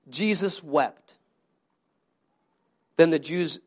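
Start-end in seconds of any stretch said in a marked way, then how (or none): 0.1-1.2 Jesus wept said slowly, each word weighted; slow reading. Shown as a demonstration. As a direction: let Jesus wept land slow and heavy. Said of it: "Everyone say this".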